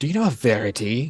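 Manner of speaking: put-on mocking tone. Describing walking up to someone, acting out a mocking question. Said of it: "like mockingly like go up to Galil".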